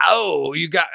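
put-on a rough, half-hearted Jamaican accent, shouted; mock Jamaican shout; bad Jamaican accent. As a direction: toss off a clumsy Jamaican accent at full voice. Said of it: "like, not good Jamaican".

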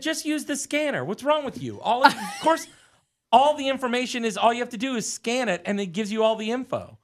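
high, exasperated talking-down; acted incredulous impatience; condescending. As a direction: explain it as if to a backwoods rube. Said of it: "I'm acting like, toward him, like".

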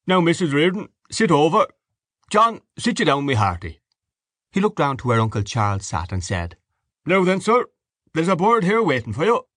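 booming, high, jovial father at table; hearty host. Acted. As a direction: play the merry host seating everyone. Mr Dedalus hosting dinner.

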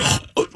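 a sharp, quick intake of breath; retold gasp. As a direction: gasp in awe at seeing him. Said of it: "it caught my breath".

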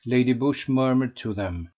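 ordinary delivery, nothing marked

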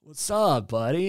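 lightly voiced surfer-dude greeting; John Berthoud. Shown as a demonstration. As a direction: toss it out like a laid-back bro. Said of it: "Say it like real John Berthoud would say it".

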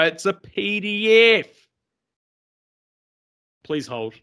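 slow, polite call-centre voice; customer service voice. Pretend. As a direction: sound like a phone support agent. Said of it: "Thomas's customer service voice".

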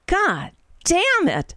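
drawn-out frustrated groan of a curse; exasperated curse. Real, not acted. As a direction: spit it out slowly, fed up. Angry at the copyright strike.

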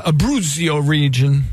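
Abruzzo rolled in mock Italian; lightly hammed Italian accent; fake Italian accent. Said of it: "That's my fake Italian".

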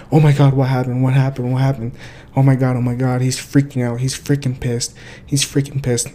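lightly hammed-up teen-sitcom panic; Disney Channel audition shock. Girlfriend feigning shock at the smashed car, mildly overacted. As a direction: repeat it in mock alarm, like a child actor auditioning. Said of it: "put on your freaking Disney Channel audition character".

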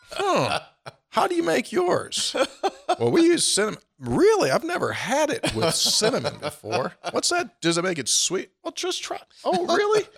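high, playful put-on voices; mock tailgate chat. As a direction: ham up a chatty exchange over chili. Acted tailgate dialogue.

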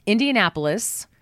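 ordinary talk

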